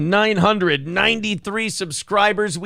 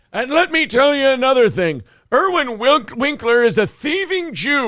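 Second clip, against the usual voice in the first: put-on old entertainer voice; 5 semitones higher than usual. Continues Dick Van Dyke bit.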